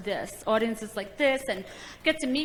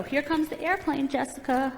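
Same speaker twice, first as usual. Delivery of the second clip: airplane spoon game; 4 dB quieter than usual. Retold or imitated. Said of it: "I go".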